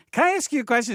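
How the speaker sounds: high, loud, pointed tone; ominous question. Retold or imitated. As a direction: ask it like trouble is coming. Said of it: "you know".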